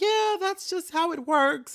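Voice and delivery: high, slow, dismissive customer-service voice; mock the loan rep's bored shrug; indifferent rep. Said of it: "she was like".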